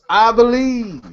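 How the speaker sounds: loud, high, drawn-out motivational shout; chesty rallying call. Real, not acted. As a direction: belt it out from the chest to rally the group. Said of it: "Say it with your chest".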